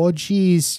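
hammed-up Minnesota lilt; mock Minnesota accent. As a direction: do a stock movie Minnesotan accent. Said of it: "I'm thinking about Minnesota".

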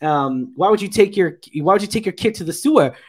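questioning. Retold or imitated. Player challenging Ted about the sewer trip, mock questioning. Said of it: "someone questioned Ted".

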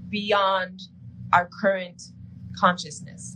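pauses between phrases, halting toward the end. Real, not acted. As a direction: repeat it in separated chunks.

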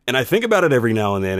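ordinary delivery, nothing marked

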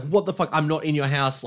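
mock bafflement. Retelling Madison's baffled reply to screaming.

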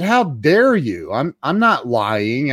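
mildly pompous, slow retort; mock affront, drawn out slowly; pompous indignation. Customer accused of lying by psychiatrist, pompously indignant. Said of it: "I got all pompous".

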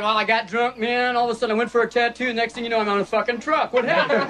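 lightly voiced soldier; soldier's story. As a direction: tell it like a dazed grunt. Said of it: "he said".

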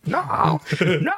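drawn-out mock scream; stretched, strained wail of movie despair; Keanu Reeves. Friend replays the film's best part, drawn-out mock scream. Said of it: "Just hear Keanu Reeves scream".

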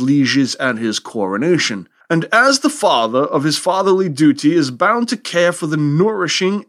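put-on semi-James Mason accent. Podcaster reading King James's treatise, a mild James Mason accent. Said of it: "sorry there for the sort of semi-James Mason accent".

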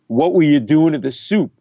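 mildly accusing question, stress on WERE; mock-accusing stranger's question; accusatory. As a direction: demand an explanation. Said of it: "like, very accusatory".

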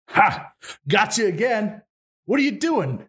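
high, crowing cartoon wolf; cartoonish wolf. Wolf teases revived Ivan, cartoonish crowing.

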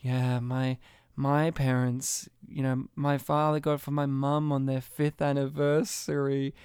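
lightly voiced nostalgic mother; sentimental mum. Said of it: "she gave this speech".

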